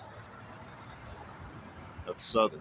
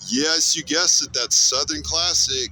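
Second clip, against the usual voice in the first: hyped intro; 6 semitones higher, 5 dB louder than usual. Acted.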